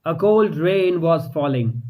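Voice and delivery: usual speaking voice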